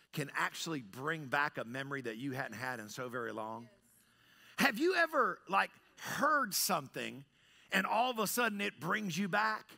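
ordinary talk

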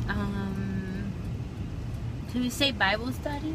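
talking while chewing gum; words around a wad of gum. Real, not acted. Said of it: "I just put gum in my mouth".

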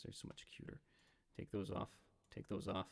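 unvoiced, hushed over cute tigers; whispered coo. Real, not acted. Streamer whispers over cute tiger pictures, cooing. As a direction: breathe it out softly in awe.

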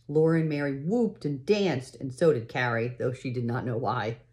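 unhurried read-aloud storytelling voice; story narration. A narrator's reading. Parent reading a pioneer story to a child, storytelling voice. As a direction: read the chapter like a bedtime story.

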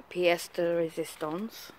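pièce de résistance in a hammy French accent; exaggerated French accent, self-mocking; bad French accent. Shown as a demonstration. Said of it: "in my really rubbish French accent".

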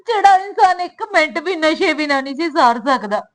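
speaking through tears; crying. Acted. Daughter telling her mother about the addict husband, crying. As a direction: choke up as you tell it.

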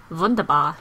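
lightly put-on German accent; mock German accent. Player pleased at finding distilled water, mock German accent. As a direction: say it with playful German v sounds.

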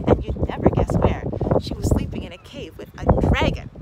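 a hint of a boy bursting with news; excited boy voice. A narrator's reading. Boy excited about dragon.

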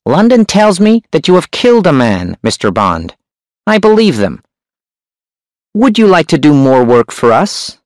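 high, sharp hunchback voice. A narrator's reading. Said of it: "The hunchback's voice was sharp and high".

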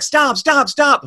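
very high, loud panicked yells; frantic yelling. Acted. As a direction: scream for the horse to stop. Horse nearing cliff edge.

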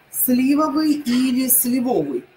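Сливовый first with stress on СЛИ, then сливовый with stress on ВО; two stresses contrasted. Shown as a demonstration. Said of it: "И правильный ответ будет". (сначала СЛИвовый, потом сливОвый)

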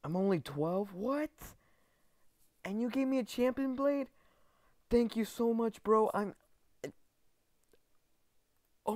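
high-pitched, stammering excitement; too stunned by the gift to go on; overwhelmed disbelief. Real, not acted. Overwhelmed by the gifted blade.

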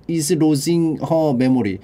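very slow, each word drawn out; slow deliberate reread; slow model reading. Shown as a demonstration. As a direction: spell it out slowly for the class. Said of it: "repeating the sentence slowly".

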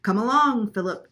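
high, very loud bird mimicry; chirped imitation. A narrator's reading. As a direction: echo the call like a chirping parrot. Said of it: "chirped Lena in the kitchen".

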